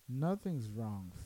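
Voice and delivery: slow, soft mumbled denial; retold sulky denial. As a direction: imitate a drunk close to tears, subdued. Imitating friend about to cry.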